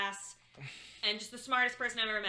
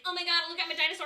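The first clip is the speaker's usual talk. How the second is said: mock excited fan; 6 semitones higher, 4 dB louder, much faster than usual.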